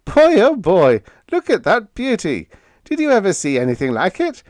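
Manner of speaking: thrilled exclamation of amazement; amazed cry. Acted. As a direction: gush with wonder at the rocket, a bit fast. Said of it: "Vern's cry of amazement rang with reverence".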